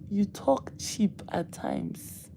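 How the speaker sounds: slow, soft, breathy put-down; slow soft taunt; dismissive. Real, not acted. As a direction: drawl it out, unimpressed. Teasing reply to a chat comment.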